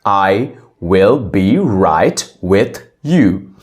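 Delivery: "I will be right with you" said slowly, every word drawn out; slow it down for the learner, word by word; careful slow teaching demo; slow, spelled-out repeat. Shown as a demonstration. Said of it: "You can say".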